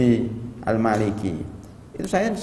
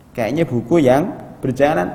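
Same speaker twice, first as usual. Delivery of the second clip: louder emphatic repeat; 4 dB louder than usual. Shown as a demonstration.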